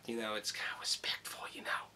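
hushed whispered aside; whispering. Real, not acted. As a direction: drop into a whisper. Aside about not showing addresses.

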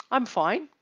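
light "I'm fine" with rising tune; first way, lifted. Shown as a demonstration. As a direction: lift "fine" upward. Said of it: "three different ways of saying".

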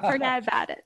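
mild mock New York accent. Student repeating a catchphrase example, lightly imitated New York accent. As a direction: toss it off as a New Yorker might. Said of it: "in New York, they say".

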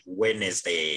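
"Wednesday" with the D left silent. Shown as a demonstration. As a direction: say "Wednesday" as WENS-day or WEN-es-day, no D. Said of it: "the D is silent".

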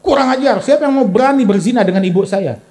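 imitating an offended young man; retelling the man's angry reply; mock angry retort. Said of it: "Dia marah".

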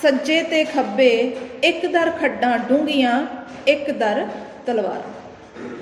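slow, drawn-out verse recital; poem recitation. Acted. Teacher reciting verse to the class, slow and measured. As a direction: chant the lines slowly like a poem.

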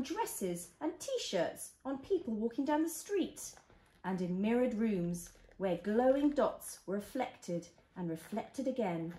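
gentle storybook reading; reading to a toddler. Acted. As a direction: read it like a bedtime story.

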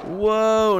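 loud, high startled whoa. Real, not acted. Player reacting to trouble in the game, startled. Startled cry during play.

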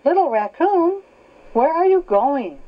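high called-out big brother voice; calling out. A narrator's reading. Big brother calling Little Raccoon from afar, high call. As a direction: call up the stairs, pitched high.

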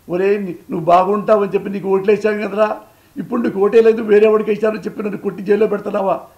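voicing wailing voters. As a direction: cry out as a betrayed voter. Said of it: "అని ఏడుస్తున్నారా". (మోసపోయిన voter గొంతుతో గట్టిగా ఆక్రోశం)

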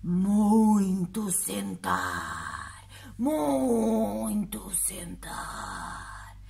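very slow monster voice; friendly monster. Acted. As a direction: drawl it like a tired giant. Monster answers.

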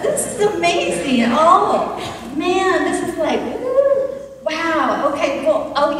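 lightly voiced Meshach, excited, then awed; a hint of Meshach marvelling at the rescue; Meshach in the furnace. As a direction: retell the furnace as Meshach living it, lively and amazed. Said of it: "what it might have been like for Meshach".

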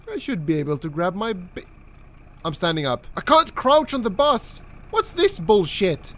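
ordinary talk

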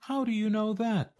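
high, fast eager question; a fox pouncing on the question, pitched high; fox asking quickly. A narrator's reading. Fox quizzes the turkey, high and quick.

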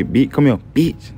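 mock street-fight yell; retold shout. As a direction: bark it at him in the street fight.

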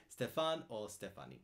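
Stéphane and Stéphanie said the French way; French pronunciation. Shown as a demonstration. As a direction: give Stéphane and Stéphanie French vowels, stress on the last syllable. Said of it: "Ici en France, on dit".

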